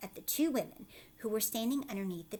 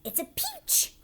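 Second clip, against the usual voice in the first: high, loud cry about the peach; excited shout; 5 dB louder than usual. Acted. Aunt Spiker shouting to Sponge about the peach. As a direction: yell it up toward the tree. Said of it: "Aunt Spiker said, shouting".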